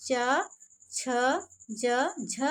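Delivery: च, छ, ज, झ said slowly and clearly from the palate; demonstrating palatals. Shown as a demonstration. Teacher shows students the palatal sounds, each one crisp. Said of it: "जैसे हम कहते हैं".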